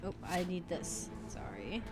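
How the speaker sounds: soft unvoiced whisper. Real, not acted. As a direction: whisper the aside off-mic. Aside while streaming.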